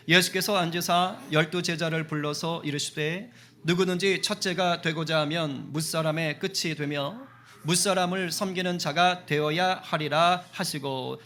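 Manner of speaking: slow, measured Bible reading; unhurried formal recitation; scripture reading. A narrator's reading. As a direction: read the verse out deliberately to a congregation. Reads scripture aloud to congregation.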